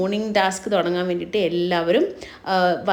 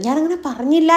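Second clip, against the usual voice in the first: retelling a tearful denial, voice pitched up; half-acted crying protest, higher; mock tearful; 6 semitones higher than usual. Anu insisting to the housemates she never said it, mock tearful. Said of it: "എന്ന് പറഞ്ഞ് അനു കരയുന്നുണ്ട്".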